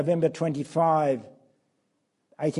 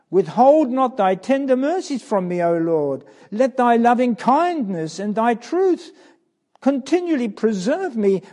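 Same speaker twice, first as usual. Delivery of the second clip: higher, louder anguished plea; crying out; 4 semitones higher, 6 dB louder than usual. Acted. Jesus crying out at Gethsemane, loud anguished plea. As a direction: cry out to God in anguish. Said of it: "And now he cries out".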